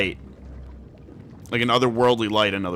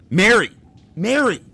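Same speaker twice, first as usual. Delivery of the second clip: excited shout; 6 semitones higher, 4 dB louder than usual. Real, not acted. Recognizes character, calling out.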